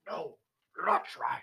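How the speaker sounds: lightly voiced Yoda; Yoda impression. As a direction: croak it like Yoda.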